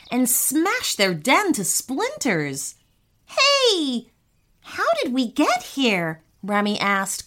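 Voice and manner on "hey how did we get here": high startled hey, easing into puzzlement; mildly baffled, raised-pitch question; confused. A narrator's reading. Boy suddenly across the stream asks brother, confused.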